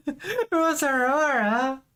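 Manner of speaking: laughing through the words. Real, not acted. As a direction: laugh out the name with relief. Laughing at reveal.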